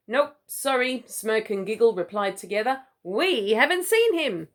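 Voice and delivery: hoge vogelstemmetjes; cheeky birds. Acted. Two kookaburras reply together.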